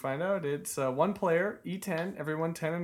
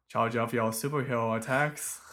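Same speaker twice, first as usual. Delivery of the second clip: Homestar voice; 4 semitones lower than usual. Shown as a demonstration. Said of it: "would be like".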